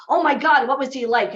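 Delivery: playfully imitating his own eagerness; eager fan. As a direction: lean in hungry for the gossip. Eager question to the barista.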